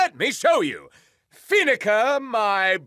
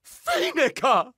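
crying out; 2 semitones higher than usual. Acted. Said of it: "He cried".

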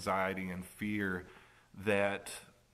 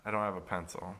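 cocky fake apology; 5 dB louder, faster than usual. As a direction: play the cheeky kid pretending helplessness. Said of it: "and I was like".

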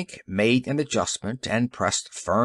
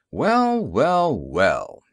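mock greeting; 3 dB louder, much slower than usual. Detective taunts the hoods.

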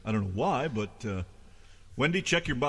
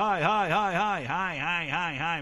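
excited high greeting; 6 semitones higher, 6 dB louder, slower than usual. Real, not acted. Greeting the dog playfully.

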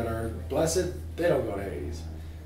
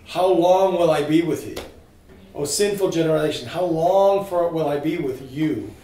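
exasperated lament; 5 semitones higher, 8 dB louder than usual. Acted. Jesus to the sinful generation, exasperated loud lament. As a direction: cry out in exasperation at the crowd.

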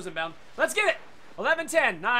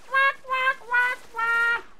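duck quacks; 12 semitones higher, much slower than usual. Pretend. Quacking at enemies.

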